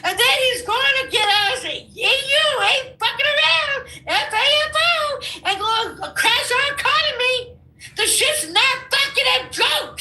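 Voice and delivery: high, agitated rant; heated warning. Real, not acted. Guest warning host about the economy, real agitation. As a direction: sound the alarm at a high pitch.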